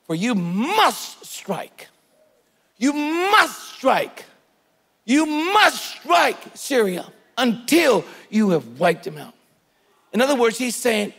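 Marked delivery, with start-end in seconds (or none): 0.1-9.3 slow, forceful prophetic command; slow powerful command; strong voice. Acted. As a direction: hammer each word like a dying prophet rising up. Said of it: "says with a very strong voice".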